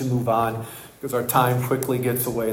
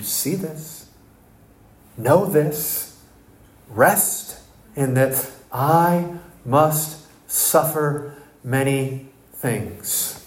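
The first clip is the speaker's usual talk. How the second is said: reassuring; much slower than usual. Acted. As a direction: let each phrase rest gently. Voicing Spirit of God.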